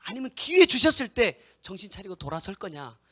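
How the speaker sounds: loud, high, impassioned preaching; full-force preaching. Acted. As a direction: preach it out hard to the congregation. (힘껏 외치는 설교)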